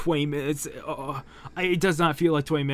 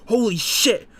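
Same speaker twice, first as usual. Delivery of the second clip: shocked outburst; 8 semitones higher, 7 dB louder than usual. Real, not acted. Reacts to reveal.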